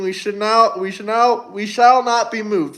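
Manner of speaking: stumbles over "we should now" before getting out "we shall not be moved"; stuttering. Real, not acted. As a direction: trips twice on "we should now", then says it. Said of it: "I'm stuttering like Joe Biden".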